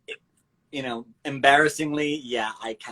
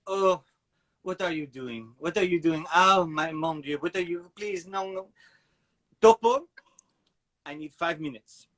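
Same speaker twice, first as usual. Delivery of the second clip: frazzled French dad; 3 semitones higher than usual. Retold or imitated. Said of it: "I could see him being like".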